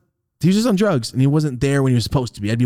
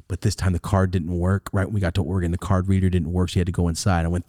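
ordinary delivery

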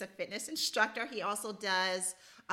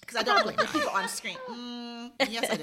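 laughing. Real, not acted. Laughing at own confession.

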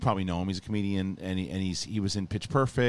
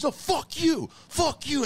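high, hammed-up retort; mock shouting match; slower than usual. Father yelling back at his daughter, high hammed-up anger. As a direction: throw it back at her, exaggerated. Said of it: "He goes".

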